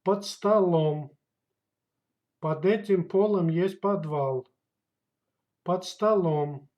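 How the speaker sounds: "Под" said as "pad" before the noun; o pronounced as a. Shown as a demonstration. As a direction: turn the o of "Под" into an a. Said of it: "in this case pronounced as а".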